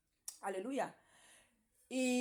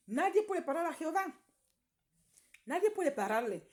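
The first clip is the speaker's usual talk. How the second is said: much higher, louder cry of Nadie puede parar a Jehová; preaching proclamation; 7 semitones higher, 3 dB louder than usual. Acted. Testifying to the congregation, a fervent high cry. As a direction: proclaim it to the whole church.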